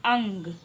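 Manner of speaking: अंग said with the vowel through the nose; nasal demo. Shown as a demonstration. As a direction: sound अंग from the nose and throat. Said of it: "इसका उच्चारण नाक और गले दोनों से होता है". (अंग को नाक से बोलना)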